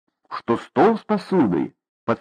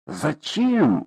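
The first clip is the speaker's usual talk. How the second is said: horrified; 4 semitones higher than usual. Acted. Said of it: "ужаснулась мать".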